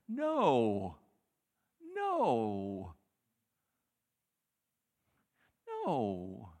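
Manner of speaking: loud, firm no, repeated; emphatic refusal. Acted. Jairus refusing the healed woman, loud and firm. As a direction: refuse it flat out.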